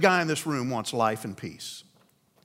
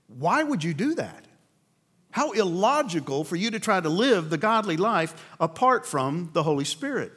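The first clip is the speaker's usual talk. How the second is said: a touch of puzzled disbelief, no anger; gently baffled God questioning the choice; befuddled God; 2 semitones higher than usual. Retold or imitated. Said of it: "He may be befuddled".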